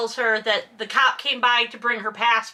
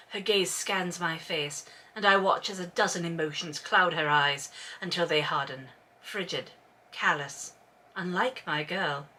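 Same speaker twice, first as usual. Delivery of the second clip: book narration; 5 semitones lower, 7 dB quieter than usual. A narrator's reading.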